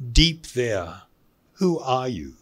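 ordinary talk, nothing marked

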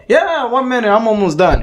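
high-pitched parody of the roommate stalling; imitated roommate. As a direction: mimic him putting someone off, high-voiced. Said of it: "He's like".

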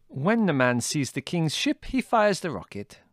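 put-on high, accented Greek lady, matter-of-fact; a lively foreign lady explaining the plan; Lena's voice. A narrator's reading. Lena explaining.

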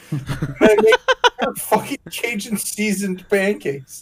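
slow, laughing. Real, not acted. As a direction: laugh through the words. Laughing at own disaster.

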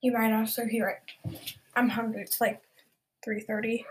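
talking while chewing an apple; words around a mouthful of apple; crunching an apple. Real, not acted. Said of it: "I'm currently crunching on an apple".

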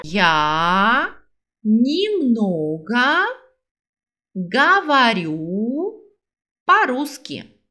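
very slow, pausing between words. Shown as a demonstration. Teacher builds the sentence word by word for students, slowly. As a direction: lay out each word separately. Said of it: "Vamos ver como funciona?".

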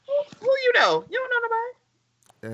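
high squeaky taunt with a cry in it; mocking falsetto. Friend repeats the Hound's line, squeaky and crying out. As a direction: whine it high like a teasing child.

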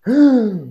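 long, high mock gasp; hammed-up intake of shock; acted shocked gasp. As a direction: gasp as if bad news just hit. Acted shock at bad news.

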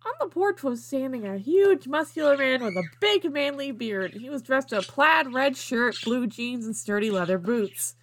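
lilting storybook reading, starting phrases high; storybook narration. A narrator's reading. Reader introducing the huge man on the porch, storybook narration. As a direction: lean on the descriptive words like a children's tale. Reads fan fiction aloud.

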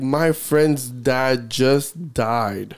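slow, whiny mock plea of the customer; slow mocking whine. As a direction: drag it out like a self-pitying customer.

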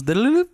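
sing-song jingle, going down; falling notification jingle. Retold or imitated. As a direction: imitate a dropping alert chime. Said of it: "every time the Bitcoin goes down".

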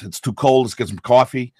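brisk, hard New York accent; a hard-edged New Yorker in a hurry. Shown as a demonstration. Dialect coach sketches a hard New York accent. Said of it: "in New York, it's a little more hard".

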